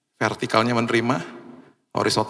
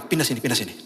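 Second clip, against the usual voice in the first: softer, quick hushed command; hushed urging; 5 dB quieter, faster than usual. Retold or imitated. Mother quietly moving her child away from him, softer. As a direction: hurry the child along under your breath.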